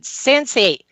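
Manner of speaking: a touch of desperate calling; retold desperation. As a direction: call the dog's name as a last resort, mildly acted. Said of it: "in desperation".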